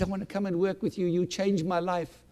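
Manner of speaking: moved, voice lifting with emotion; choked up. Retold or imitated. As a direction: quote him while holding back tears. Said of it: "I'm crying and I'm getting choked up".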